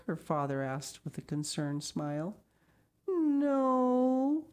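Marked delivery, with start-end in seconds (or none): 3.1-4.5 high, sad little no. A narrator's reading. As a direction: answer sadly like a small girl. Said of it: "she shook her head sadly".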